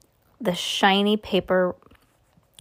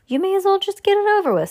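high-pitched, quick character line; urging grandpa; 12 semitones higher, 4 dB louder, faster than usual. A narrator's reading. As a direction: hurry the child along in a raised pitch. Grandpa urges Charlie to open it.

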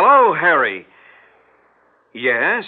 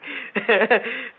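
nervous laugh; 6 semitones higher than usual. Acted. Laugh after "I'm fine.

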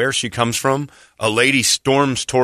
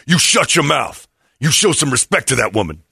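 stern rebuke; 2 semitones higher than usual. Retold or imitated. Big man rebukes apologizer, retold.

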